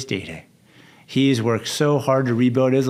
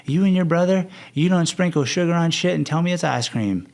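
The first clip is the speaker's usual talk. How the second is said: lightly imitated Arkansas accent, higher pitch; 5 semitones higher than usual. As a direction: quote a woman with a hint of Arkansas twang. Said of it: "in her deep Arkansas accent".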